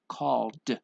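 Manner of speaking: "called" with a released voiced d; one-syllable "called", stressed d ending; final D sound. Shown as a demonstration. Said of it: "we have the D sound".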